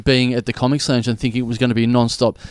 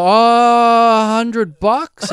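paniekerig en gehaast; panicky; 7 semitones higher, 5 dB louder, much slower than usual. Retold or imitated. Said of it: "panicking and I go".

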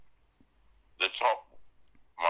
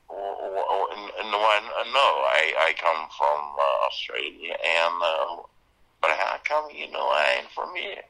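flustered stammering reply; 5 dB louder than usual. Retold or imitated. Actor answering a suspicious local, stammering then in accent. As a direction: caught out, stammering to hide where he's from. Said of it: "And I said".

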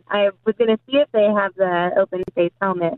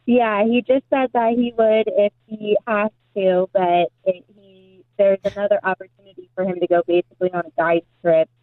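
echoey, hollow phone sound; like talking inside a barrel. Real, not acted. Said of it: "you sound like you're in a barrel".

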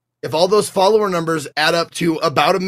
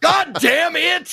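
frustrated outburst; 13 semitones higher, much slower than usual. Retold or imitated. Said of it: "And I was like".

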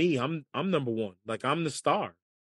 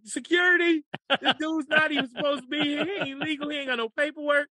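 mock call for security; 11 semitones higher than usual. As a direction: shout across the course to fake-report your golfer. Calling out to security jokingly.

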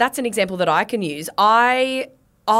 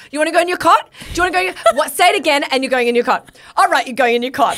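higher and louder, mock-stern threat to a toddler; imitating a mum's threat; 8 semitones higher, 5 dB louder, faster than usual. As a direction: ham up a fed-up mum warning her kid. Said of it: "she's like".

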